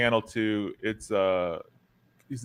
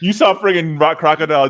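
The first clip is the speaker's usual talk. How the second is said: laughing; 6 semitones higher, 10 dB louder than usual. Real, not acted. Host laughing while teasing guest.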